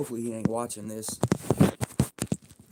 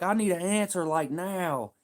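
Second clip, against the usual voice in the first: higher mock boss voice; a hint of the boss; 8 semitones higher than usual. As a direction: play the nagging boss. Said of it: "He's like".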